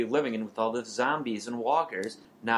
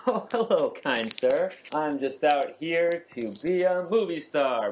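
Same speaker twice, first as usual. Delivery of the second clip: naive newcomer; 5 semitones higher than usual. Acted.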